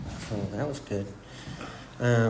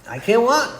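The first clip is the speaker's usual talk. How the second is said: high, loud helpless wail; mock protest; 11 semitones higher, 5 dB louder than usual. Man yanked up by police, wailing protest. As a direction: cry it out in exaggerated protest.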